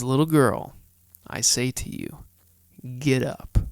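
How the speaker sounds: measured, deliberate Bible narration with long pauses; scripture reading. A narrator's reading. Host reads the Gospel of Mark to listeners, measured scripture reading. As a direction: read it out phrase by phrase, key words punched.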